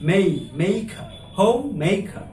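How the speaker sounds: "হোমমেকার" broken into slow syllables, "মেকার" pronounced clearly; careful syllables. Shown as a demonstration. Teacher spells out "homemaker" syllables for students. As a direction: sound out "হোমমেকার" piece by piece. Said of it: "উচ্চারণ, আমি বারবার বলছি".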